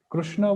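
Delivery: "Krishna" pronounced "Krushna"; u after r. Shown as a demonstration. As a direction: say "Krishna" with a u in the first syllable. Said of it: "this is not Krishna".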